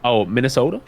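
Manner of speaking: put-on light Minnesota accent with a questioning lift. Teasing a friend from Minnesota, light Minnesota accent. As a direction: lightly imitate a Minnesotan saying their state. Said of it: "My auntie sounds like that".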